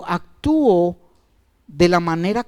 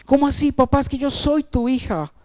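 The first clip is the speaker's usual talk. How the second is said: crying daughter; 6 semitones higher than usual. Retold or imitated. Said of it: "Y lloraba".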